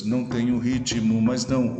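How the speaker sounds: "Não tenho ritmo, mas não" in measured syllables; syllable counting. Shown as a demonstration. Teacher showing an eight-syllable verse, metrical reading of "Não tenho ritmo, mas não". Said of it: "oito sílabas".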